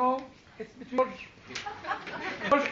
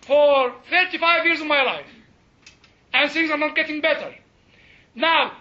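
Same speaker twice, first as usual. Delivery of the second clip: higher, forceful challenge to God; exasperated ultimatum; 4 semitones higher, 4 dB louder than usual. Acted. Believer telling the Lord things are not improving, exasperated ultimatum. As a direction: confront Him, pausing between phrases.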